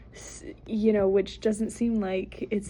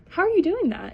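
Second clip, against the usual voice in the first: cow voice; 8 semitones higher, 4 dB louder than usual. Acted.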